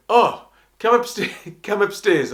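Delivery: a mock-grand come upstairs; inviting. Lloyd Webber inviting him upstairs, high and laughing. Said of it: "he went".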